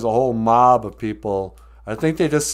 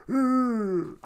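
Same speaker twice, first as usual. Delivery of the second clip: miserable groan; 13 semitones higher than usual. Retold or imitated. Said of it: "in a diaper going".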